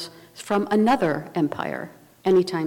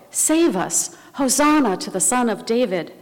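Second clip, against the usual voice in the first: mild, higher-pitched mock cry of a crowd; retold crowd cry; 4 semitones higher than usual. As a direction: lightly imitate pilgrims crying out for rescue. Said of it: "who that day were crying out".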